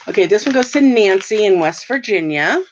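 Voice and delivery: talking with a dry mouth; parched, needs a drink. Real, not acted. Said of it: "Sorry, I'm really dry mouth".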